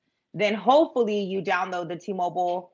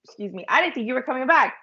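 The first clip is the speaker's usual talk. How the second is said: high-pitched jeweler; 6 semitones higher than usual. Retold or imitated. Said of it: "she was like".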